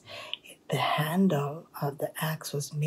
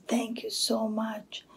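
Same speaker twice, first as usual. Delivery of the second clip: pitched-up grateful line; acted delight; happy thanks; 5 semitones higher than usual. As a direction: play a happy woodcutter, voice lifted. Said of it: "was so happy".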